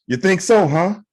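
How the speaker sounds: high-pitched mock taunt; old Asian driver. Old Asian dude looking over at driver, taunting. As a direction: call the bluff in a high put-on voice. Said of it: "it's an old Asian dude".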